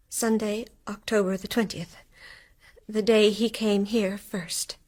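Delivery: breathless whisper of realisation; awed whisper. Acted. Mary whispers as she realises the date. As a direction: whisper it as the truth dawns.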